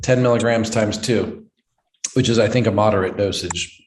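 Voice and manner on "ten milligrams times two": urgent offer. Retold or imitated. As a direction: push the pill on him fast. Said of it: "I'm like".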